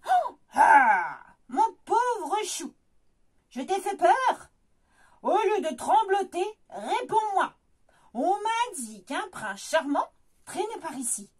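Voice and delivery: a lightly voiced wicked witch; hissing old witch coaxing the bear. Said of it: "Siffle la sorcière".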